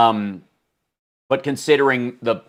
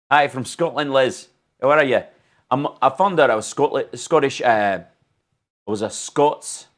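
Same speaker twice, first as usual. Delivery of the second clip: put-on Scottish accent; 3 semitones higher than usual. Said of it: "I'm gonna have to do a Scottish accent".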